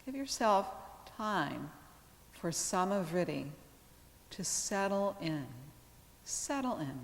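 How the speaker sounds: calm yoga teacher with long, restful pauses; guided meditation. Real, not acted. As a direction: guide them gently into relaxation, unhurried, letting each phrase settle. Leads yoga relaxation.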